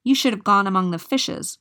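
the witch beating her mare, loud scolding; crying out angrily. Acted. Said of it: "cried the old woman".

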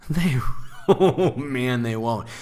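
laughing through oh man; amused laugh at own joke. Real, not acted. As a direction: chuckle out the words.

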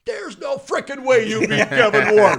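loud, high burst of amazed disbelief; high, loud, thrilled retelling; excited disbelief. Retold or imitated. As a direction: imitate an excited caller shouting incredulously. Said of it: "And she's excited".

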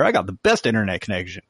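fast, laughing through the brag. Retold or imitated. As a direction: crack up mid-boast, quick. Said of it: "He's like".

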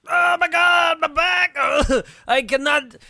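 high, loud mock cry of pain; agonized yell. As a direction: howl about the back, hammed-up. Acts out man in agony mid-sex.

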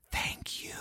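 barely voiced "thank you", just mouthed; retold whisper mouthing thanks. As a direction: silent mouthing of thanks, only breath. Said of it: "he mouths at me".

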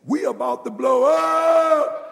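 loud, high, slow shout with a stretched UP; big stretched preacher's yell; drawn-out holler. Acted. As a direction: holler it out and hold the last word.

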